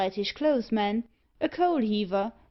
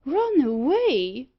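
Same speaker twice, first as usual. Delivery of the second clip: higher, louder, slow, disbelieving; shocked exclamation; 5 semitones higher, 6 dB louder, much slower than usual. Acted. Loftus echoing the news in loud, slow disbelief. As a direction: echo it back in shock. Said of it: "exclaimed Loftus".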